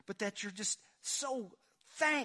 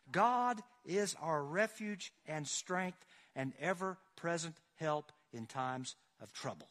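raised, ringing preacher read; fervent scripture reading; slower than usual. Acted. Pastor reading the psalm to the congregation with ringing fervor. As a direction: proclaim it to the whole church.

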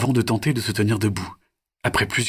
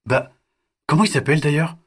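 put-on high, lively kids' banter; mock-announce to the parents, then muse on a name; chatty child voices; 9 semitones higher, 5 dB louder than usual. The children joking about telling their parents, high playful voices.

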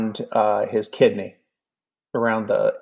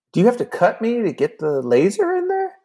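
sudden worry; 11 semitones higher than usual. Retold or imitated. It suddenly hits him.

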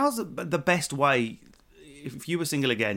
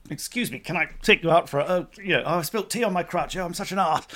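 awkward; 3 semitones higher than usual. Acted. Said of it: "it's so awkward".

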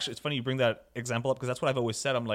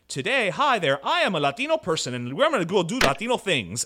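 a touch of a cheesy sitcom character announcing being Latino; lightly hammed-up stereotype TV voice; mock cheesy TV host; 4 semitones higher, 4 dB louder than usual. Mocking stereotyped Latino shows, a lightly hammed-up cheesy host. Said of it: "it's just like".

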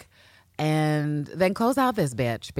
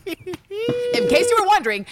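playful aside; 4 dB louder, slower than usual. Acted. Mock coy aside, high.

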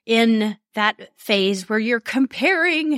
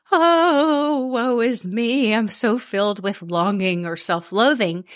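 mock despair. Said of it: "Oh, I love dramatizing these".

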